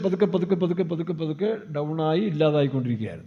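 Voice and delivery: repeated words stepping down in pitch and volume; gradual fading. Retold or imitated. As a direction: let each പതുക്കെ sink a little further. Acts out old man fading away.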